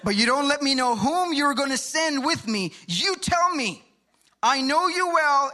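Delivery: high-pitched Jewish New York accent; amateur Jewish accent, pitched well up. Shown as a demonstration. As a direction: argue with God in a put-on Jewish accent. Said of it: "Jewish accent".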